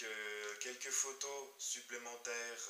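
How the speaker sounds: normal talking voice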